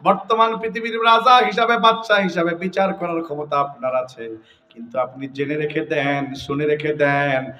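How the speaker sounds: hoopoe preaching. Acted. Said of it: "হুদহুদ ওয়াজ করে".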